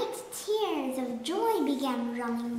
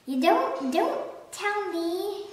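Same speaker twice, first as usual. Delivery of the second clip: eager cry; 7 semitones higher, 4 dB louder than usual. A narrator's reading. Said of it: "cried the Duke".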